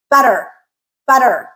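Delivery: butter with a quick R-colored final vowel; butter, last er weak and rounded; unstressed R ending. Shown as a demonstration. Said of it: "Very fast".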